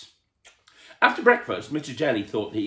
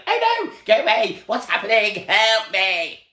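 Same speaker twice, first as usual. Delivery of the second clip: high, loud panicked pleading; frightened whimpering; 13 semitones higher, 9 dB louder than usual. Retold or imitated. Showing the child how Mister Jelly hid, loud panicked plea. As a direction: beg from under the covers. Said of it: "He was like this".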